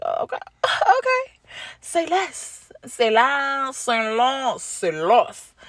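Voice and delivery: high, squeaky giddy voice, coming down with each repeat; giddy high reply. Retold or imitated. Accepting the host's invitation, high and giddy. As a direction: play it cool but too thrilled to hide it.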